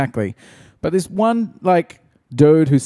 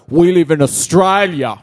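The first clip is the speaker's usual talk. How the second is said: mock indignant customer; 4 semitones higher, 5 dB louder than usual. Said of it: "they're like".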